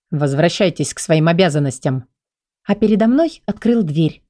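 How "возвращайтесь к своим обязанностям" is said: ниже, сухо и мрачно; отдать приказ мрачно, без крика; слегка мрачно. Acted. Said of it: "добавил мрачно". (король отсылает стражу: мрачно и сдержанно)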